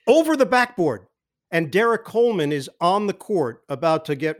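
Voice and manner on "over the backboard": higher, laughing as he repeats it; amused repeat. Real, not acted. Repeating his own call to the podcast host, amused. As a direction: savor the blooper with a chuckle.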